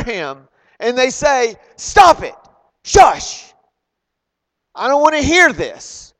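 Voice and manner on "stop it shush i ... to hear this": loud, high-pitched telling-off; sharp rebuke. Retold or imitated. People silencing a begging blind man, loud sharp rebuke. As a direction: shut him up in short, forceful bursts.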